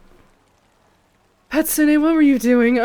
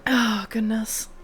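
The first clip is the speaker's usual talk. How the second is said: whisper; 4 dB quieter, slower than usual. Real, not acted. Overwhelmed by gifts.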